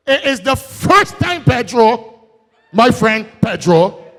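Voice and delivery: high, ringing repeat of it is the first time; say it loud. Shown as a demonstration. Speaker repeating the claim to the crowd, loud and high. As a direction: proclaim it out to the whole hall. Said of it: "and I can say that loud again".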